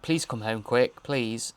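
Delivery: flat, slow robotic plea. Retold or imitated. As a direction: say it like a robot, flatly. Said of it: "he said it very robotically".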